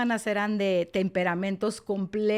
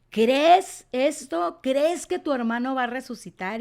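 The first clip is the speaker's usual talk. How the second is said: strong firm voice; 4 semitones higher than usual. Retold or imitated. Jesus speaking over Martha's complaint, strong and firm. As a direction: speak over her protest, firmly. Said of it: "usar una voz fuerte y firme".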